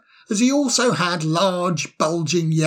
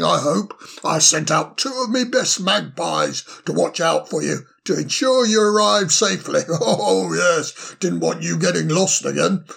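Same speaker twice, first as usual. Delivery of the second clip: put-on cheery, fussy old owl voice; bustling, delighted host; jolly old owl. Solly speaks to Ermo.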